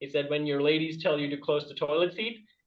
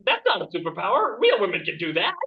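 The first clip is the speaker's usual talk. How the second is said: mock indignant objection; 3 semitones higher, 3 dB louder than usual. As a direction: protest it as if cheated. Acting out his indignant reaction.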